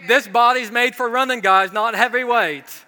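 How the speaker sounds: loud, laughing mock groan at the barbell; mock complaint. Pastor joking to the congregation about lifting, loud and laughing. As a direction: ham up the gym suffering for laughs. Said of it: "I'm like".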